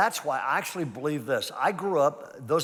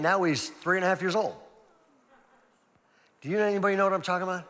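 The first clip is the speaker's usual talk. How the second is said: higher and louder as it builds; rising urgency with each blink; building intensity; 5 semitones higher, 4 dB louder than usual. Real, not acted. Pastor telling parents how fast kids grow, building. Building story of time passing.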